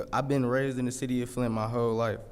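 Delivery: ordinary talk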